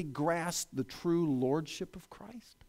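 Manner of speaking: slow, whispered emphasis; confiding whisper. Acted. Preacher confides to the congregation in a slow whisper. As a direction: lean in and whisper it.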